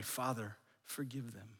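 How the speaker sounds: very quiet, low plea; soft prayer. Acted. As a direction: pray it under the noise of the insults. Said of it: "he would pray".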